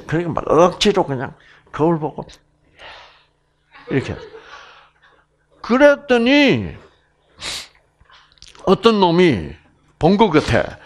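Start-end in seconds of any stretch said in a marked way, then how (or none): none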